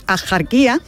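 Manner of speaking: "ajarquía" with a strong Spanish jota; pronounced with J. Shown as a demonstration. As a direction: scrape the j in "ajarquía". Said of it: "pronunciarlo con J, es decir".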